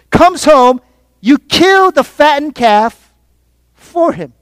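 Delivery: slow, indignant accusation, mildly heated; angry older son. Acted. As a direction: throw it at the father, dragging the key words. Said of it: "continues to display his anger".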